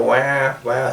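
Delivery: put-on baby crying. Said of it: "something like a baby crying".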